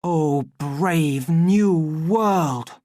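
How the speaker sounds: loud, high, very drawn-out proclamation; ringing call to action. A narrator's reading. Words ring in the savage's mind, call to action. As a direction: ring it out as a rallying cry. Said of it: "they rang out in a call to action".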